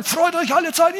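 Paul as general barking at the church. Retold or imitated. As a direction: command it like a four-star general. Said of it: "Und er brüllt die an und sagt".

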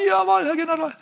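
high clipped yes-sir reply; recruit reply. Retold or imitated. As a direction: snap back like a recruit. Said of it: "Und die sagen".

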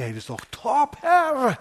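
rising to a high, loud whoop on Herr; delighted cry to the Lord; gushing excitement. Acted. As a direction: Peter overjoyed, wants to stay forever. Peter gushes on the mountain.

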